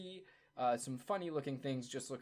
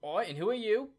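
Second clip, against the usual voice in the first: higher, louder challenging guard voice; gruff gate guard; 9 semitones higher, 7 dB louder than usual. Acted. Gate attendant challenging the newcomer, gruff and loud. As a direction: bark it like a bored guard stopping a stranger. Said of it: "the attendant looks over and says".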